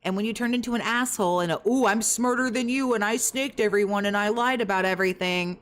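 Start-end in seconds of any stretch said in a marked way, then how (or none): 1.7-5.6 mocking whiny voice. Mocking someone's boasting.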